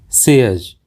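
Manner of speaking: सेज said as "sez", ending in a z; correct pronunciation. Shown as a demonstration. Teacher repeats the correct word for learners, carefully pronounced. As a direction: say सेज like "sez", clear final z. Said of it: "इसका सही उच्चारण होता है".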